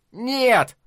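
sharp high cry of no; defiant refusal. A narrator's reading. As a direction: refuse loudly mid-struggle. Brothers fight, defiant refusal.

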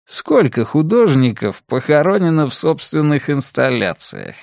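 lightly voiced sneering kidnapper; mock her with cold amusement; gloating villain. Villain taunts his captive.

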